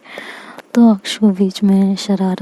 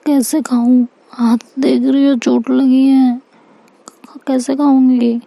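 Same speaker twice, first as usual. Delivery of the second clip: put-on higher, childlike whining about the hurt hand; whiny complaint; 4 semitones higher than usual. Injured girl whining to her carer about eating. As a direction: sulk and complain, pitched up. Injured Aksh refuses to eat.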